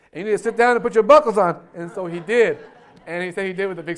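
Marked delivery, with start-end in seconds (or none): 0.1-1.6 loud, fast, insistent command as the stewardess; firm order. Acted. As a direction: lay down the law to a stubborn passenger. Stewardess insists after his boast.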